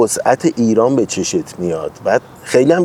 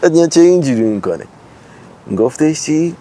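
mock politician; 7 semitones higher than usual. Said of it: "لهجهش عوض شد".

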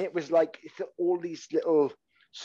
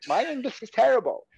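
mock indignant echo; 11 semitones higher than usual. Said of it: "I'm like".

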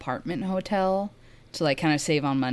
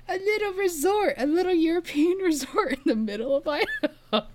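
delighted; 13 semitones higher than usual. Real, not acted. Delighted describing the hotel.

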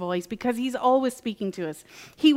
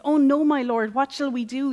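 a touch of panic, pitched up; mock-panicked cry of a frightened servant; 3 semitones higher than usual. Servant panicking at the surrounding army, mildly frightened. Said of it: "he panics".

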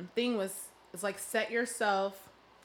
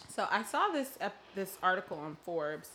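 mouth full. Real, not acted. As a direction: still chewing popcorn while talking. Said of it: "sorry, I'm eating my popcorn".

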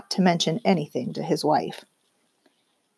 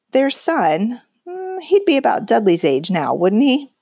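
forced casual; 4 semitones higher than usual. Acted. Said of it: "as casually as he could".

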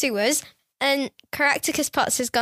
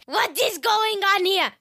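toy rabbit voice; 5 semitones higher than usual. Retold or imitated. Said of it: "Serge, you're like".

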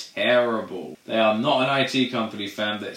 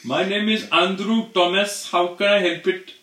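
mock agent intro; 8 semitones higher, 4 dB louder than usual. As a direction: greet like a scripted call-centre agent. Mocking IT support agent.

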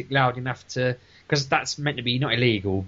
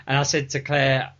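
normal talking voice

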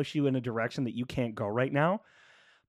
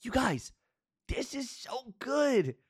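smiling voice; 10 semitones higher than usual. Real, not acted. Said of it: "I'm smiling so big right now".

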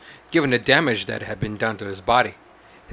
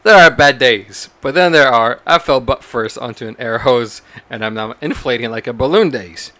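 louder newsreader opening; newscaster voice; 4 dB louder than usual. Pretend. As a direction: read it like an anchor. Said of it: "a newscaster voice".

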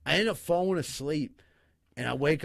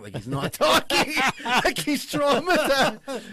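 high laughing squeal through the quote; giggling high mock quote; laughing retell; 11 semitones higher, 7 dB louder, slower than usual. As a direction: laugh out the traumatized bit. Woman retelling son's reaction.

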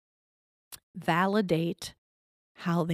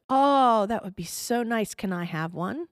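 hopeful mother; 4 semitones higher, 6 dB louder than usual. Retold or imitated. Mother asks daughter for apple.

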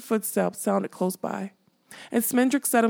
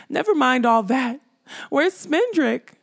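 crying out; 6 semitones higher than usual. Acted. Molly breaking in to ask where Smendrick is, crying out. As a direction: cut in anxiously over the others.

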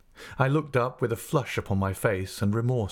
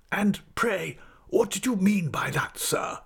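higher-pitched, indignant schoolmaster challenge; mildly angry demand; 11 semitones higher than usual. A narrator's reading. Creakle turns on his assistant, mildly angry. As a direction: demand an explanation in a high, cross voice. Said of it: "turning angrily on his assistant".

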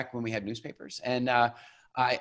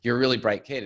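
louder, sarcastic echo of the praise; mocking repeat; 7 dB louder than usual. Teen son mocking his mom's praise, louder sarcastic echo. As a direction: throw the compliment back with a sneer. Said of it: "more condescending adulthood".

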